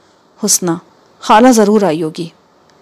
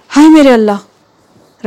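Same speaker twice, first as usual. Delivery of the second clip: dismayed cry; 5 semitones higher, 6 dB louder, much slower than usual. Acted. News of the train crash.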